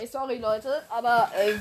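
talking through a stuffed nose; nose blocked, speak around it. Real, not acted. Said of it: "meine Nase ist zu".

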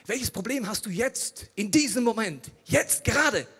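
high, loud, pressing challenge; insistent questioning. Retold or imitated. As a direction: drive the question home, piece by piece. Acting out a friend pressing him. (eindringlich, laut nachhakend)

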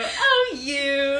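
high teasing squeal; coy playful shove; playful flirty voice. Acted. Playful push between characters.

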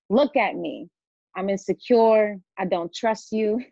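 measured spoken-word reading of her own poem; spoken-word poem, deliberate and searching. Acted. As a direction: read it line by line with pauses and weight. Reads her poem aloud.

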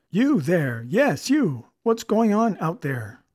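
loud, high commanding call from a window; imperious call. A narrator's reading. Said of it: "Roy called out imperiously".

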